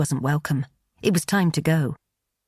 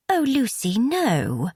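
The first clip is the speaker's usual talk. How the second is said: a mild lament, pitched higher; 7 semitones higher, much slower than usual. A narrator's reading. Bet mourns Lucy's news with a mild, higher lament. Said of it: "Bet lamented".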